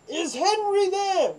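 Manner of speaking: high, loud, slow echo of the name; mock guard echo. Barracks guard repeating the caller's question, high and slow. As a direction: drag it out high like a puzzled guard.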